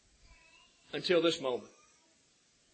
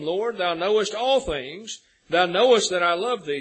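loud, impassioned reading of the Gospel; scripture preaching; 3 semitones higher, 6 dB louder than usual. Acted. Preacher reading John to congregation, loud and fervent. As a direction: proclaim the verses from the pulpit. Reads scripture at full force.

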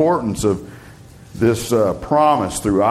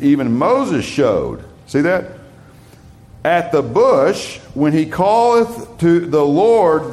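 emphatic scripture reading; 3 semitones higher than usual. Acted. Reads Luke aloud with weight.

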